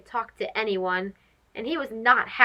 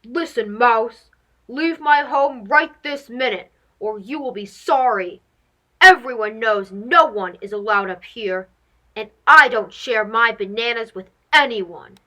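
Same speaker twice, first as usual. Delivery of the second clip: cranky monkey; 4 dB louder than usual. Acted. Cranky monkey threatens mouse.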